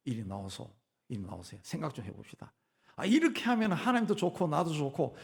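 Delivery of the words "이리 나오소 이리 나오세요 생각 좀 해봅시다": low, measured challenge to God; confident address. Acted. Believer boldly summons God to talk, confident and low. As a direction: call God out quietly, unhurried and sure. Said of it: "당당하게 나가서".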